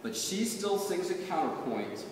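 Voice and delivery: measured, rhythmic poetry reading; poem recitation. Acted. Poet reading her poem to an audience, measured recitation. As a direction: read it like a poet at a reading, savoring each line.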